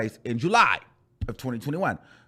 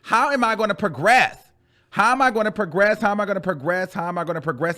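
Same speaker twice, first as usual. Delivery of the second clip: despair; 4 semitones higher than usual. Retold or imitated. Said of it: "'cause I'm like".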